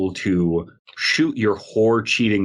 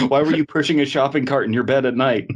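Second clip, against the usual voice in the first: high mock cop; 6 semitones higher than usual. Acted cop.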